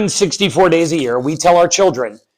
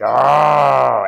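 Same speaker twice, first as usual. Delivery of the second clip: long drawn-out "aaah"; mock scare-actor roar, held; moderate, sustained haunted-house holler; imitated monster roar; 2 semitones lower than usual. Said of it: "and he's like".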